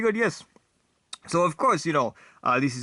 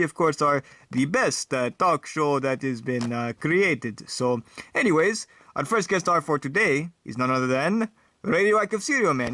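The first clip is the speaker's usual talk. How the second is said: vampire talk show host. Acted. Vampire host interviewing Radioactive Cereal Man, in a light vampire accent. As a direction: play the vampire host hosting proudly.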